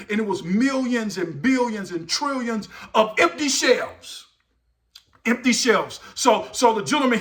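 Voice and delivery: emphatic sermon storytelling; dramatic preaching. Real, not acted. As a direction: build the wonder for the congregation.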